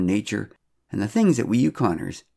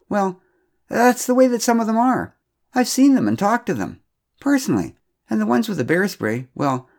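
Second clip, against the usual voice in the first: much higher, strained pleading; upset defending; 9 semitones higher, 4 dB louder than usual. A narrator's reading. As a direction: justify herself close to tears. Kelda, upset, defends her story.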